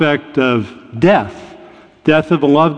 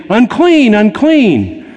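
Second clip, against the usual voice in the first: calling out unclean; 5 semitones higher, slower than usual. Retold or imitated. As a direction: call out a warning to the crowd, fading on the second word. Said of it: "she's supposed to say".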